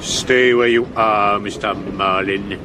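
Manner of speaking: slow, measured order; menacing command. Acted. Actor holding suspect at gunpoint, slow menacing command. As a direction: halt him with slow, deliberate authority.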